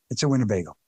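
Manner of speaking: It's a Winnebago in a light Chicago accent; a hint of Chicago accent on Winnebago. Shown as a demonstration. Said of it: "In my Chicago accent".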